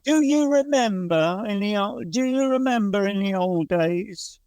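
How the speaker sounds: high, nostalgic local-newspaper verse; sentimental poem reading. Retold or imitated. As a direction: recite like a mawkish bonfire poem.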